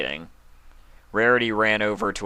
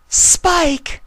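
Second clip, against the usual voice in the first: shout; 10 dB louder than usual. Acted. Twilight runs to sick Spike.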